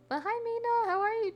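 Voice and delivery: squealy high hello to a friend in chat; excited greeting. Real, not acted. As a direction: greet her like you're thrilled she's here.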